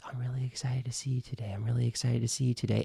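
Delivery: quick, run-together repetition; fast, connected practice sentence; repeating on one exhale. Shown as a demonstration. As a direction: rattle it off on a single outgoing breath. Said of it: "keep saying that same sentence".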